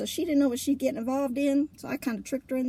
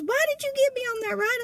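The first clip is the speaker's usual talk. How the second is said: higher, accusing question; indignant question; 12 semitones higher, 3 dB louder than usual. Retold or imitated. Marie confronting Trina after the ride, higher accusing tone. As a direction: ask it like you feel betrayed. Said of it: "she goes".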